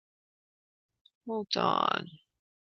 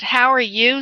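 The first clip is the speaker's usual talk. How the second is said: put-on New England accent; 3 semitones higher than usual. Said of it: "sounds a little bit like a New England accent".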